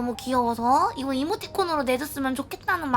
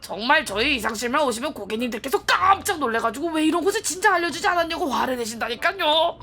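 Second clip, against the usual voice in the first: polite saleswoman voice; smooth sales pitch; customer service voice. Acted. Voices shopkeeper NPC.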